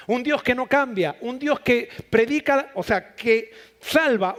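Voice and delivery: full-force preaching. Acted. Preacher to congregation proclaiming who God is, at full force. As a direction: hammer each "yo soy" like a pulpit climax. Preaching God's self-revelation.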